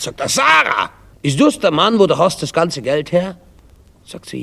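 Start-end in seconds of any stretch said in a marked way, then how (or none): 0.3-3.4 high-pitched indignant outburst. Acted. Shocked husband confronts Sarah about the money, indignant. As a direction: demand an answer, voice jumping up. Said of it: "Er ist sichtlich empört".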